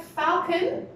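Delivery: falcon stressed on the first part; FAL-con, lean on the first syllable; model word. Shown as a demonstration. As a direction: say falcon slowly with FAL strong. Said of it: "The stress is on the falcon".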